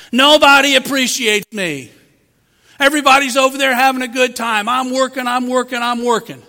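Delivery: a preacher acting out a self-pitying worker; self-pitying whine. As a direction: sulk about working while others play. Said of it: "you think".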